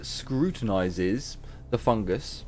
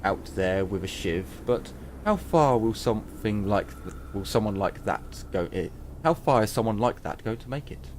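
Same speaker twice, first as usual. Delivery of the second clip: shopkeeper voice. Acted. Trader explains weapons.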